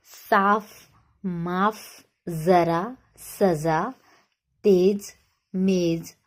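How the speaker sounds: साफ, तेज with a clear nukta f and z sound; nukta pronunciation. Shown as a demonstration. Teacher leading children through nukta words, crisp. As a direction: sound each nukta word crisply for the class. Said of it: "तो चलिए बोलते हैं".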